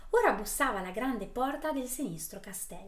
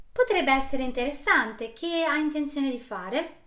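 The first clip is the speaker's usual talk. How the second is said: put-on old hag; 5 semitones higher, 7 dB louder than usual. Old woman voiced, far timbre.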